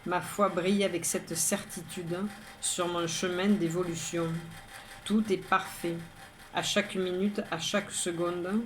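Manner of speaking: measured, even poem reading with pauses between lines; poem recitation. Acted. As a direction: recite it line by line, evenly. Third reading of own poem.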